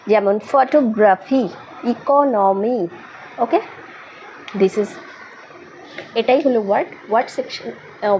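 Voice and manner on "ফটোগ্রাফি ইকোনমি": "ফটোগ্রাফি", "ইকোনমি" slowed into separate syllables; সিলেবলে ভেঙে বলা. Shown as a demonstration. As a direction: sound out "ফটোগ্রাফি" and "ইকোনমি" beat by beat, slowly. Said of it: "সিলেবলে ওয়ার্ডকে ভাগ করা হয়". ("ফটোগ্রাফি", "ইকোনমি" ধীরে ভেঙে ভেঙে উচ্চারণ)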